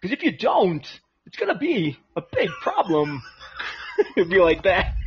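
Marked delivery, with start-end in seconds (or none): 0.0-3.2 lightly voiced Walken cadence; halting Walken rhythm, mildly done; Christopher Walken impression. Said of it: "Christopher Walken as an Amish guy".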